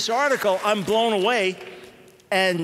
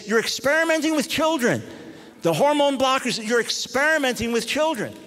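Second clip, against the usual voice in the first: retold protest; 5 semitones higher than usual. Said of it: "speaking out against it".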